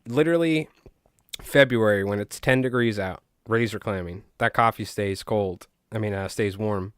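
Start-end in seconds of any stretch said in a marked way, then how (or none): 4.4-5.7 Long Island accent. Real, not acted. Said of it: "You can hear my Long Island accent when I said coffee".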